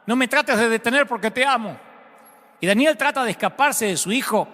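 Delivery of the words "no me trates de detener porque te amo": insistent love. A narrator's reading. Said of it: "pero continúa diciendo".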